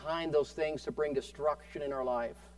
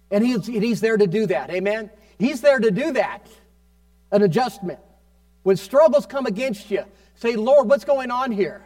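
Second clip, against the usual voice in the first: raised, higher preaching voice; impassioned preaching; 4 semitones higher, 7 dB louder than usual. Real, not acted. Preacher telling people to ask God about struggles, impassioned. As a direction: urge the congregation on with building force.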